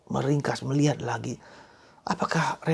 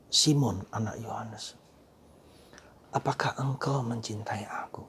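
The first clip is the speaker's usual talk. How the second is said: breathy whisper, low and intimate; hushed whisper of Jesus' question; 3 semitones lower, 8 dB quieter than usual. Acted. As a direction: ask it as if to one soul alone.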